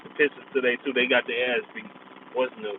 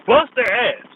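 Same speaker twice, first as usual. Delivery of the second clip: gloating; 8 semitones higher, 5 dB louder, slower than usual. Real, not acted. Gloating over win.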